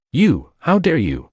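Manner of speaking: high, slow outraged challenge; stunned fury, drawn out; enraged. A narrator's reading. Father defied by his son, slow high outrage. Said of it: "in a fit of rage".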